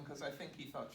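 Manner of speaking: usual speaking voice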